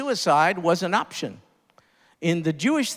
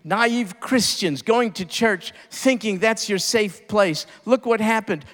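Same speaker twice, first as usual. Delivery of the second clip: mocking critics; 3 semitones higher than usual. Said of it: "People are berating us, saying".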